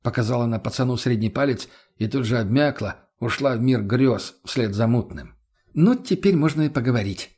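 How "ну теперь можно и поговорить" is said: smirking insolence. Acted. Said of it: "нагло ухмыльнулся царь".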